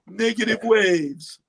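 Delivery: slow, drawn-out hippie line; Oddball impression. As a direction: savor negative waves slowly.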